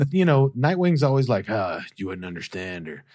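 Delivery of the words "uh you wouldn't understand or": evasive mumble. Retold or imitated.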